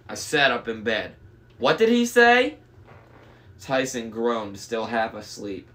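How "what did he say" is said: high, loud startled voice; startled giant. Acted. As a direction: blurt it out startled. Tyson confused.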